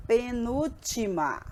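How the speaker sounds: "penúltima" slowly drawn out, syllable by syllable; very slow, measured "penúltima"; word-game recital. Shown as a demonstration. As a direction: stretch "penúltima" like a classroom memory game. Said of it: "lembra daquela brincadeirinha que a gente fez".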